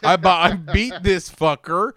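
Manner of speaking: loud, slow gloating yell; triumphant shout. Retold or imitated. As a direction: yell it like you finally won. Acting out the driver's triumph.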